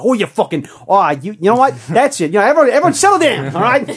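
acted rant, high and loud, speeding up; mad accent voice. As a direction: blow up in a high-pitched mock tirade. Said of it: "I was able to sort of get mad".

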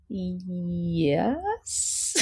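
soft, drawn-out reluctant yes; barely audible, hesitant confession; quiet admission. Real, not acted. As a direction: admit it under your breath, dragging it out. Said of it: "say it louder for the purpose of the microphone".

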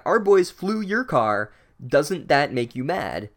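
pointed mock outrage, drawn out word by word; mock yelling. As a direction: imitate an incensed wife spelling it out. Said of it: "starts yelling at the Weasel dad".

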